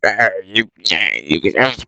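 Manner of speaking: low, soft creature voice; Gollum voice. Retold or imitated. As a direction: sly cave creature muttering. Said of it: "Gollum's like".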